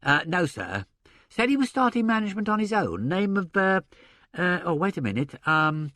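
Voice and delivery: a hint of a respectful secretary; mild, polite helper voice; deferential secretary. Horrocks recalls a name.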